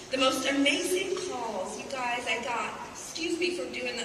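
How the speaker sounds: choked up, speaking through tears; fighting back sobs, voice barely there; ugly cry. Real, not acted. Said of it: "I'm kinda doing an ugly cry now".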